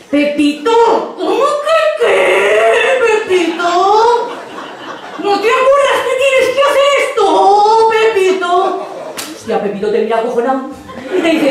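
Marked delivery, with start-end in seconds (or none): 0.1-8.9 exasperated singsong. Retold or imitated. Exasperated monitor scolding Pepito.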